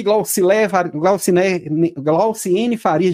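stumbling over the name; tongue-tied. Real, not acted. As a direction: trip over the name, restart it.

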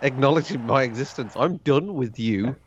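mock teen daughter.

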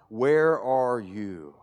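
hushed, broken questioning; anguished lament. Retold or imitated. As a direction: plead with God in despair. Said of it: "wrestling with God".

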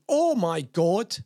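loud, slow mock scream of fright; retelling a woman's leech scream. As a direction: ham up a scared shriek. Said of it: "and screamed".

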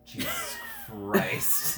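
very high, slow laughing shriek. Real, not acted. GM shrieking with laughter at a crude joke. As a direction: squeal it out while cracking up.

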